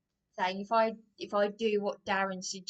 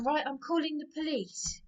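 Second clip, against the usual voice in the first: mock indignant threat; 5 semitones higher than usual. Partner threatens police in retelling.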